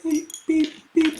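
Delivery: high beep beep noises; robot beeping. Retold or imitated. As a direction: chirp like a little robot. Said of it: "So you're just like".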